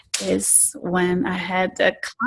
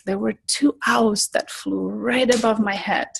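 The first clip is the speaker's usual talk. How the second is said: usual speaking voice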